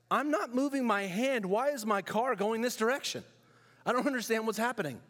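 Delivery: mock-bewildered driver whose car drifts on its own; confused panic. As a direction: sound baffled as the car slides.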